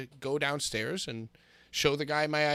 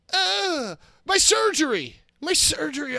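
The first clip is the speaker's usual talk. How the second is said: high, loud yelp of pain; pained cry; 12 semitones higher, 7 dB louder than usual. Real, not acted. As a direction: cry out over the sore hip. Cohost hurt, pained cry.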